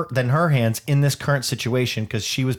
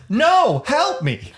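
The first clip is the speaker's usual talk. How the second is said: high, loud panicked cry for help; frightened plea; 13 semitones higher, 4 dB louder, much slower than usual. Retold or imitated. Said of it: "To which she replies".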